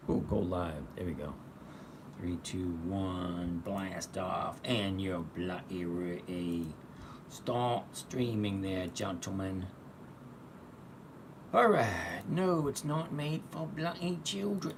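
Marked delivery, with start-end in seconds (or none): 0.9-9.7 put-on English accent, slow and drawn out. Streamer telling himself to go live, mock English accent. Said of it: "I always get that English accent". 12.3-14.7 high, slow put-on English accent. Streamer ticking the made-for-children setting, mock English accent. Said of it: "I always get that English accent".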